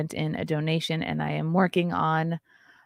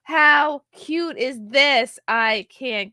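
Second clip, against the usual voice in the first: high, loud, slow coo; high slow delighted coo; gushing; 7 semitones higher, 6 dB louder, much slower than usual. Real, not acted. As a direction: draw it out in delight. Gushing over baby clothes.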